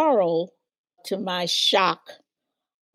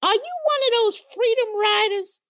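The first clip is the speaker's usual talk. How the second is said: high, fast imitation of a curious older lady; older lady asking; faster than usual. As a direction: ask it quickly in a raised voice, lightly voiced. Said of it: "And she said".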